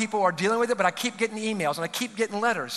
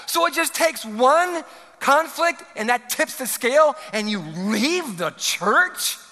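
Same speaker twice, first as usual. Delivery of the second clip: incredulous; 5 semitones higher, slower than usual. Retold or imitated. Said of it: "one of the greatest lines".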